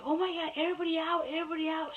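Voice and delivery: imitating the nurse shouting everyone out; mock nurse scream. Nurse orders everyone out of the room, alarmed shout. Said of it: "She started screaming like that".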